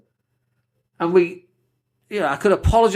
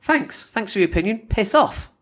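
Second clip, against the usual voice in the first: sarcastic brush-off; 5 semitones higher than usual. Retold or imitated. Sarcastic reply to a troll.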